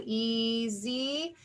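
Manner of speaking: "E, Z" as two separate, stretched syllables; teacher's syllable-by-syllable "E, Z"; split into syllables. Shown as a demonstration. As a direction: divide easy into "E" and "Z" with a gap. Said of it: "That's where my syllable division line would go".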